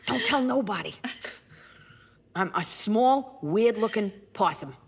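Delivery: lightly voiced shady cat; Gracie. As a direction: own up as a streetwise critter. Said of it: "This is Gracie".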